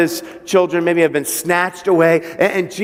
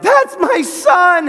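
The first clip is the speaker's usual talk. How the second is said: much higher, louder, stretched shout of joy; joyful yell; 14 semitones higher, 4 dB louder, slower than usual. Retold or imitated. Father shouting at first sight of his son, overjoyed yell. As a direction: cry it out like a father spotting his lost son. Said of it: "his dad yelled".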